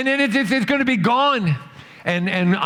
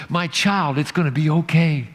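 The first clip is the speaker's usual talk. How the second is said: voice of God; 2 semitones lower than usual. Acted. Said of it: "you hear this whisper in your soul".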